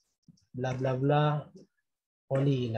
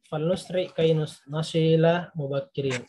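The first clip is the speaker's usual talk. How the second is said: slow, even reading aloud for repetition; teacher modelling the sentence slowly; slow model reading. Shown as a demonstration. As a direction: read slowly for students to repeat. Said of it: "istami wa raddid".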